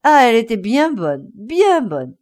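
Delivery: amused loud exclamation, laughing at the flea. Acted. Travellers laughing at the flea, loudly amused. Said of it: "des rires éclatants".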